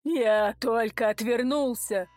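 grieving tough guy telling his loss; lightly voiced lament of a heavy man; tearful big boss. Big man tearfully tells what happened.

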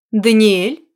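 calm courteous question; cool and civil, a light rise; even, polite. Acted. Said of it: "Её голос был ровным, учтивым".

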